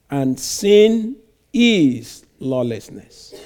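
measured, solemn Bible reading from the pulpit; scripture reading. Acted. Preacher reading First John to the congregation, solemn and measured. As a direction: read the verses out with weight, line by line. Reads scripture passage aloud.

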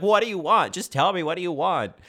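imitating tearful outburst. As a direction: retell her crying demand with some heat. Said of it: "she's crying".

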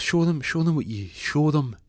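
high, insistent urging; egging on. Retold or imitated. Jackie goads drunk Ron into action, egging on.

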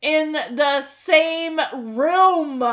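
deadpan dad. Retold or imitated. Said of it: "Danny just looks at her and says".

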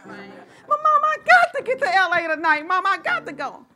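put-on high, whiny child begging; pleading daughter. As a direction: whine like a desperate kid.

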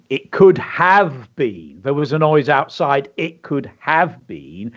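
slow, measured poem reading; reading a list poem. Shown as a demonstration. Teacher reading a pupil's list poem aloud. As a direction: read the lines like a children's poem. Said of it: "So the poem would go".

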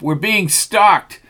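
high, loud and slow; panicked cry. A narrator's reading. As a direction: cry out, dragging each word. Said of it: "cried Tucker".

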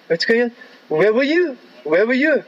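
high-pitched mock indignation; imitated fuming. Boat owner confronting late passengers at the pier, imitated fuming. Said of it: "he was fuming".

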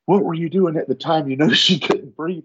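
high, mock-polite official question; lightly voiced, overly courteous captain; captain keeping the boyfriend busy with a mock-polite, high question; a hint of a polite captain.

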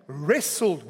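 "wrestled" drawn out slowly; emphasis on wrestled. Real, not acted. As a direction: lean on the word "wrestled", stretching it. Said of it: "Emphasis on the word wrestle".

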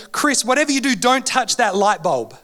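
a hint of a mother warning her child; imitating mum's warning. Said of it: "my mum would say".

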